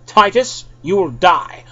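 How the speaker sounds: acted fury over a bad gift; steaming mad. A narrator's reading. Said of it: "with an evil grin on her face and steam bellowing".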